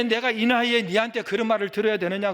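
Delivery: loud, high indignant complaint; pouty grumbling. Acted. Elder offended at hearing criticism from someone younger, pouty grumbling. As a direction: mimic a huffy, pouting grumbler. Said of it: "툭하면 이렇게 입을 삐죽삐죽 대는 사람들이 있어요".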